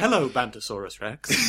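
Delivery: slow, put-on game narrator voice; Brian Cox. Game narrator greets the player by silly name, put-on voice. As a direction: greet the player grandly and slowly. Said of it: "that was my impression of Brian Cox".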